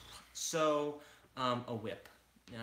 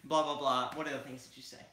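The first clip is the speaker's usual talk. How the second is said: Oliver impression; 2 semitones higher than usual. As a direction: hype it up, stay fresh. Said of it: "this is my best Oliver imitation".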